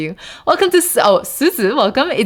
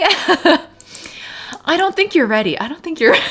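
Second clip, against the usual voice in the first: high-pitched, laughing through the words; laughing tease; 9 semitones higher, slower than usual. Real, not acted. Streamer doubts raiders are ready for chess, laughing tease. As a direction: tease them while cracking up.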